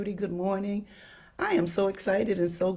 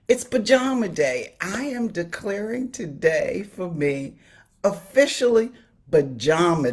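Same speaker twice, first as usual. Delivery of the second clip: bright burst of real excitement, higher and louder; excited announcement; 3 semitones higher, 5 dB louder than usual. Real, not acted. Telling her live viewers her big news, excited and louder. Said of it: "and I'm so excited".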